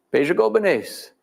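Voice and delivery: high, slow, drawn-out call of the name; ceremonial name call. Shown as a demonstration. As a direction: offer the last spoonful with the name. Final ritual offering call.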